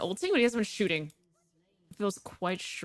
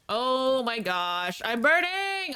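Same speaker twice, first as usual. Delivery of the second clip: alarmed cry; 5 semitones higher, much slower than usual. Real, not acted. Character burning in game.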